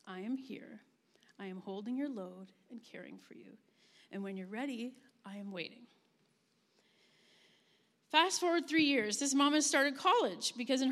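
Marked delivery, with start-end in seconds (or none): 0.1-5.9 gentle whisper. Pretend. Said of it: "as if God is whispering".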